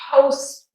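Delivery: postman, jaw dropping into a faint "mun"; schwa. Shown as a demonstration. Teacher showing the jaw drop in postman, schwa ending. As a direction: postman with a barely voiced last syllable. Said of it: "my jaw just drops and forms that natural".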